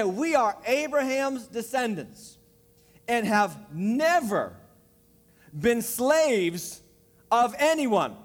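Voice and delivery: slow, deliberate reading with pauses; slow, pointed reread of the verse; read slowly. Shown as a demonstration. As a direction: let each phrase land slowly. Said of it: "Let me read it again slowly".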